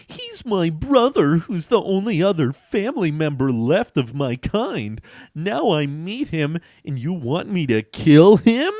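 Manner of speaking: high, loud pleading protest; upset hero. Acted. Hero refusing to kill his brother, high and loud. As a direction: protest with disbelief.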